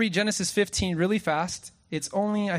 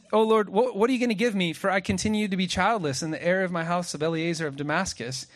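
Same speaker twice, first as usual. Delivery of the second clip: pleading complaint; 3 semitones higher than usual. Retold or imitated. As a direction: push the complaint up, wanting more. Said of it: "And he says".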